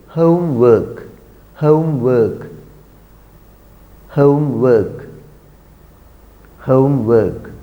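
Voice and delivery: HOMEWORK with gliding OH-oo in HOME, repeated as a model; correct pronunciation. Shown as a demonstration. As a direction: drill HOMEWORK with the o diphthong. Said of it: "Your answer is correct".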